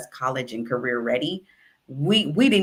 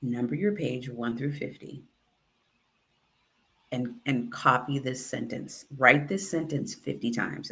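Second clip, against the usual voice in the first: softer, lower teacher murmur so only one student hears; lower, softer voice, teacher to a frazzled student; 3 semitones lower, 6 dB quieter than usual. Retold or imitated. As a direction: keep it low and private like a teacher. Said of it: "her voice got really super low".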